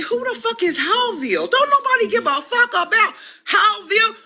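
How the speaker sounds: rising to a high incredulous yell with a laugh; retorting on the phone to the man; mocking outrage. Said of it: "I said".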